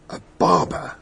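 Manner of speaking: a near-whispered discovery; hushed, unvoiced aside; hushed realisation. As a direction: breathe it almost as a whisper. Doctor examines razor handle.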